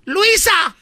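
sharp yell across the house; calling out. Acted. Mom yells for daughter Luisa, sharp call. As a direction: call her name like an angry mom.

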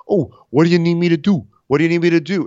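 high, fast, loud eager voice; mock Chris. Chris showing up late, mock eager. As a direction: overdo the late helper's eagerness.

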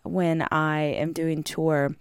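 hoarse, swollen-throat voice; scratchy voice. Real, not acted. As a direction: talk through a sore scratchy throat. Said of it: "my throat is swollen and a little scratchy".

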